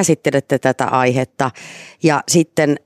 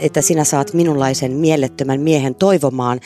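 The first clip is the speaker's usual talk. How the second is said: devoted story reading. Acted. Reading the novel excerpt to the hosts, devoted narration. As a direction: read the romance aloud with feeling. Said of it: "luepas antaumuksella".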